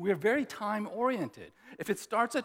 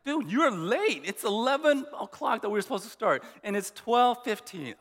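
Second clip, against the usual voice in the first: frustrated; 3 semitones higher, 4 dB louder than usual. Retold or imitated. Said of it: "I was frustrated".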